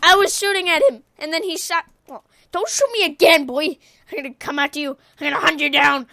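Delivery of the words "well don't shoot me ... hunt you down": mock threat. Taunting enemy player in game.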